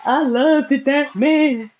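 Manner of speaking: replaying her own sobbing phone call; retold crying plea. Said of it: "on the phone crying to Mister Bruce".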